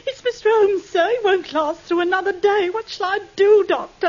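distressed landlady. Acted. Landlady bursting in with bad news.

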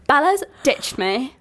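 slow, mildly sulky fake complaint; mock sulk. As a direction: drag out a fake grievance. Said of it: "And I'm like".

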